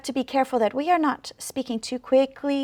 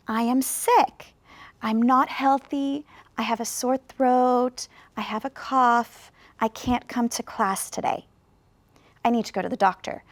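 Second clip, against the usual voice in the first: slow demonstration. Shown as a demonstration. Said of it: "Let me show you".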